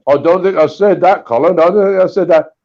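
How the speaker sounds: lightly imitated old Irish accent; broad Irish accent. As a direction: put on a hint of broad Irish. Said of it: "in his broad old Irish accent".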